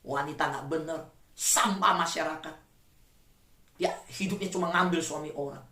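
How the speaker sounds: low, hushed gossip among women. Retold or imitated. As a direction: mutter it like a mean gossip, slowing at the end. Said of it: "Langsung gosip". (bisik-bisik gosip yang sinis)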